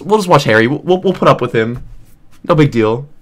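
casual, patronizing imitation; mock condescension. Imitating a commenter tolerating him, mock condescending. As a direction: brush it off condescendingly. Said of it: "the most condescending thing".

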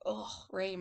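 put-on mildly glum old-man groan; unhappy old man. Teacher imitates old man for the class, mildly glum. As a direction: lightly imitate a man let down by rain. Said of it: "old man doesn't look happy".

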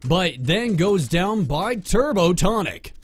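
play-by-play building from measured to excited; sports announcer. Pretend. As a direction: narrate the chase like a sportscaster. Resumes play-by-play commentary.

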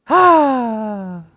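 high, loud drawn-out sigh; loud falling "ahh" of defeat; wailing sigh. Real, not acted. Cry after losing in game.

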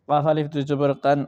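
"কাফ" and "কান" with the big back-of-mouth q; big qaf. Shown as a demonstration. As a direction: say "কান" as qan, with Arabic qaf. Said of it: "এই কাফ হইল গিয়া বড় কাফ". (বড় কাফের উচ্চারণে "কান")

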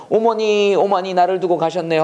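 acted tearful call to a lost mother; mild mock sobbing. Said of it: "흐느껴 울면서".

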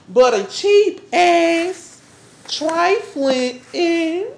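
slow scornful insult. Acted. Angry quarrel, slow insult.

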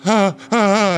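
high mock fangirl squeals; mock freaking out. Girlfriend meeting a star, high mock squeals. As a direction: squeal like a fan losing it. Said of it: "she's, like, freaking out".

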